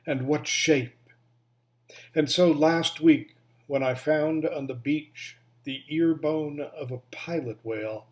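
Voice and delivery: deliberate recital, pausing between phrases; poetry reading. Acted. Reading a recently discovered poem called Bone, deliberate poetry reading. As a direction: give each line of the poem room.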